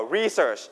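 RE-search, said as the noun; stress on first syllable. Shown as a demonstration. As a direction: hit the first syllable of research. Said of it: "we set on the first syllable". (เน้นพยางค์แรกของ research แบบคำนาม)

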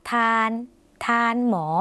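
"ทาน" with a long, held aa; drawn-out vowel. Shown as a demonstration. Teacher showing viewers a Lao word, "ทาน" drawn out long. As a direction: stretch the vowel of "ทาน" a little. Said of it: "เสียงยาวสักนิดนึงนะคะ".

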